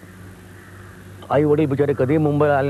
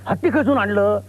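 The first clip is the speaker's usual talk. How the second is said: sudden higher gasp of wonder at the plane; startled cry; 6 semitones higher than usual. Retold or imitated. Village mother sees an airplane for the first time, startled cry. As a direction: blurt it out, amazed and scared. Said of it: "ती फटकन ओरडते".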